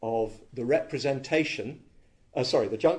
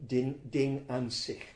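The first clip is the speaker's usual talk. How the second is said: German accent. Shown as a demonstration. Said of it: "Forgive my German accent".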